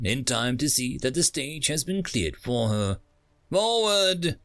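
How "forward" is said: barked command. A narrator's reading. Guard orders the line forward.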